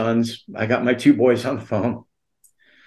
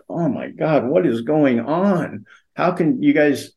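higher-pitched, dragged-out exasperation; alarmed disbelief; 3 semitones higher, slower than usual. Retold or imitated. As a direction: retell being stunned and demanding answers. Retells his alarmed demand for answers.

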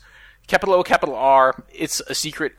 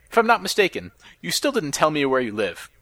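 lightly voiced chatbot. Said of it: "I wanna be the chatbot".

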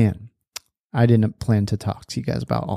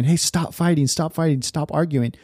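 higher-pitched, snippy mock scolding; 4 semitones higher than usual. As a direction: imitate a parent nagging the kids to stop. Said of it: "being snippy with them and immediately just saying".

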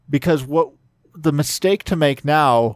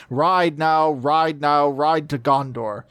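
battle cry; 2 semitones higher, slower than usual. Acted. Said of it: "the king cried".

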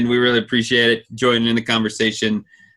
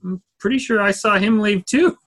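high mock voice; 9 semitones higher than usual. Joking retort in retold exchange.

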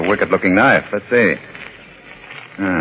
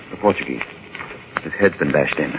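hushed and grim; 7 semitones lower, 7 dB quieter than usual. Acted. Finding a body.

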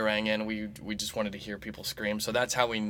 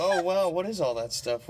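laughing surprise; 7 semitones higher than usual. Real, not acted. Reacting to tan.

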